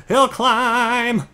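loud, high rallying cry; high, drawn-out battle cry; excited call-out. Real, not acted. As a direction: belt it out, stretching the last word. Calling out as the climb starts.

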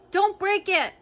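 high, loud imitation of the owner's scream; mock scream. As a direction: mimic the panicked shout. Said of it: "I know you screamed".

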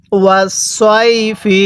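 slow ওয়াস সই ফি with a stretched সই; read-along recitation. Shown as a demonstration. Teacher leads learners reading aloud, slow measured ওয়াস সই ফি. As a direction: hold সই, then land evenly on ফি. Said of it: "আরেকবার পড়ুন".

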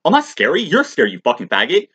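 high, loud, mock-outraged yell; shouting down police officers in a retold scene; acted angry shout. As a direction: spit the insults back at the cops. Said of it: "It's like".

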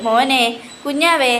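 slow, drawn-out pet names; put-on doting calls; imitated baby-cooing. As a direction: coo to a baby for others to overhear. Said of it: "എന്നൊക്കെ പറഞ്ഞ് നമ്മളെ കേൾപ്പിക്കാൻ".

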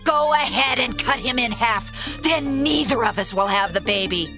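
high, bitter outburst; shouted spite. Acted. Other woman agrees to halve the baby, shouting. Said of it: "The other woman shouted".

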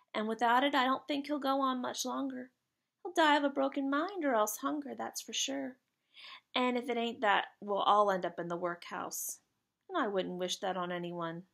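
a hint of a worried working boy; lightly voiced Jack. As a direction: lightly play a lad explaining his father's plight.

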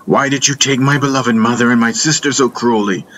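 wounded, angry appeal to the one who betrayed you; angry plea. A narrator's reading. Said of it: "I was angry, so angry".

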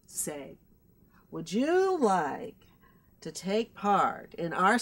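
unvoiced hushed say; whispered aside. Host slipping a secret offer to guest, whispered. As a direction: lean in and whisper it.

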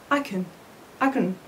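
I and can run together with no gap; linked I can. Shown as a demonstration. Teacher shows students I and can joined with no gap. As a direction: glide I straight into can. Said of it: "لم أدع فراغا بين I و can".

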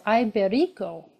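IBERICO mistakenly begun with an English "eye" sound; mispronounced. Real, not acted. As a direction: say Iberico wrong, starting "eye". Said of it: "I said that wrong completely now".

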